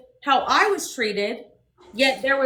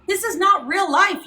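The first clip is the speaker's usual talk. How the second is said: angry outburst; 4 semitones higher, 4 dB louder than usual. Real, not acted. Angry rant about drama.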